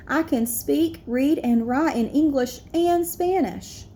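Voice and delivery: put-on a child reading her essay on stage, steady; reading an essay aloud. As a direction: read it carefully to the assembly.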